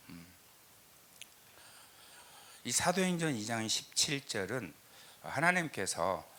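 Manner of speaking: normal talking voice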